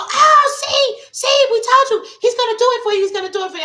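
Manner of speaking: retold high excited taunt; excited told-you-so. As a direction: gloat like friends who called it. Group screaming we told you.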